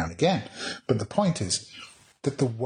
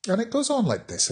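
ordinary talk

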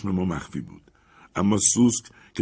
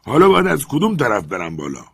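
Jupiter calling down; 4 semitones higher, 7 dB louder than usual. Acted. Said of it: "ژوپیتر پرسید".

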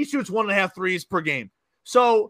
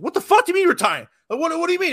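shocked disbelief; 9 semitones higher, faster than usual. Retold or imitated. Agent dad's shocked reaction retold.

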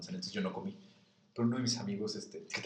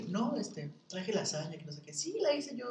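proud bringing lasagna; 11 semitones higher than usual. Retold or imitated. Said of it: "Llega y así como de".

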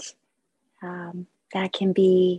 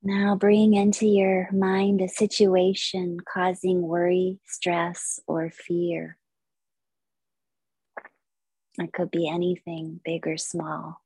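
measured, unhurried yoga nidra guidance; guided meditation. Acted. Yoga teacher leading listeners into stillness, guided meditation. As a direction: guide listeners through relaxation with long pauses.

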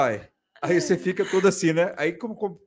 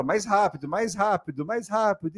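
higher mock coach urging speed; instructor urging; 5 semitones higher than usual. Retelling the spin instructor urging the class, higher pitch. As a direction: push the riders on, coach style. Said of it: "aí ele fala".

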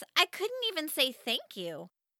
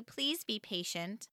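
patient insistence; 4 semitones lower, 8 dB quieter than usual. Acted. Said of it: "my mom insisted".

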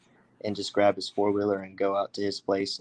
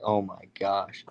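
in awe; slower than usual. Retold or imitated. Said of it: "It was just in awe".

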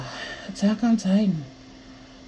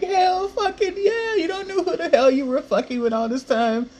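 fierce hype; 10 semitones higher than usual. Retold or imitated. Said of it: "And I'm like".

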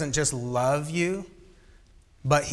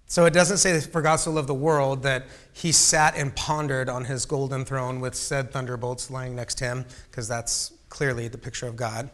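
sarcastic. Acted. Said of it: "that was sarcasm".

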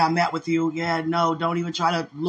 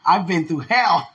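retold comeback; 6 dB louder, slower than usual. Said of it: "your comeback was".

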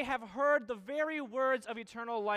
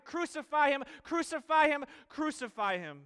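louder, higher chant of the mob, fading on the last; crowd's cry; 4 semitones higher, 4 dB louder than usual. Retold or imitated. Preacher voicing the mob calling for death, louder chant. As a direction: call it out like the angry mob, then let it drop. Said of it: "have turned to cries of".

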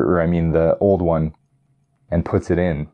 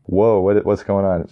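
mock amazement. Viewer seeing the weird spaceship, mock amazement. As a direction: play the viewer caught off guard. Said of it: "you're like".

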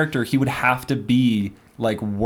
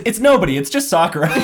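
put-on eager kid voice; 4 semitones higher, 4 dB louder than usual. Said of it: "he says".

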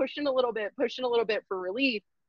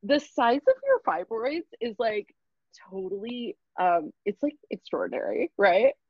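eager intern voice; 3 semitones higher than usual. Retold or imitated. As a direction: sell it brightly like a keen student. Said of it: "so she's like".

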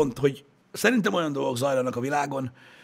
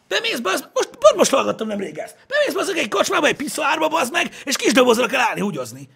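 laughing; 10 semitones higher than usual. Real, not acted. Laughing retold absurd story.

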